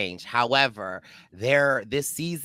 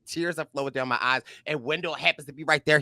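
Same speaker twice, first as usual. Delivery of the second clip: usual speaking voice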